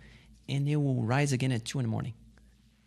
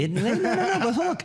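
much higher, louder, laughing no-no-no; laughing protest; 6 dB louder than usual. Real, not acted. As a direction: brush off the remark while laughing. Guest protests host's modesty, laughing.

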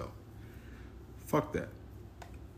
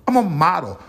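mock model voice; 8 semitones higher, 10 dB louder than usual. Mocking a woman's reply.

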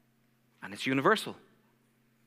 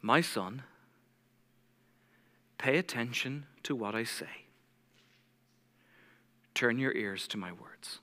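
slow, soft and low, with long pauses; deliberately slow reading; 7 semitones lower, 8 dB quieter than usual. Shown as a demonstration. Preacher reading Proverbs to his church as the Lord's loving voice, slowly. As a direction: read it gently, letting each phrase sit. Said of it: "I'm deliberately going to read it slowly".

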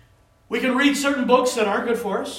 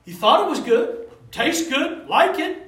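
mock relish; 6 semitones higher, 7 dB louder than usual. Mimicking pleasure of tasty food.

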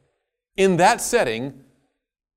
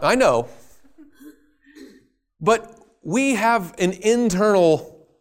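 ordinary delivery

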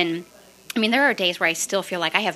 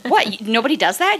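high, louder disbelieving What?; incredulous surprise; 4 semitones higher, 4 dB louder than usual. Retold or imitated. Shocked speaker answering her coach, incredulous. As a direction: replay your own shock at the coach.

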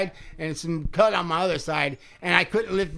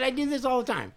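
cocky shout; 7 semitones higher, 4 dB quieter than usual. Retold or imitated. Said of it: "I said".

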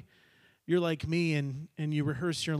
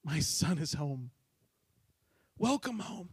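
tender welcome. Acted. Father tenderly welcomes son.

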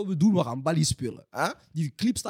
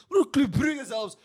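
drawn-out shout; 5 semitones higher, much slower than usual. Real, not acted. Slow shouted boast.

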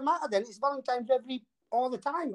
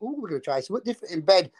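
quick excited mock voice; 3 semitones lower, faster than usual. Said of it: "you think".

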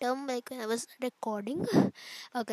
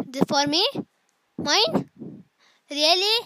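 higher, louder delighted surprise; surprised; 6 semitones higher, 12 dB louder than usual. Acted. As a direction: act thrilled at a gift. Mock surprise at gift.

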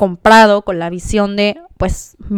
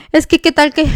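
mildly anxious, raised pitch; retold anxiety; 6 semitones higher than usual. Woman retelling her doubts about leaving, mildly anxious. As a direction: act out a worried what-if. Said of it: "Una ansiedad".

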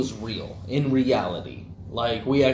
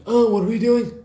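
put-on grumpy old man; 9 semitones higher, 5 dB louder than usual. Old monk voiced in battle.

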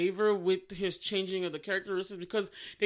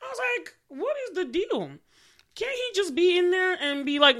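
irritated disbelief; 10 semitones higher, 5 dB louder than usual. Real, not acted. Irritated rant about the scene.

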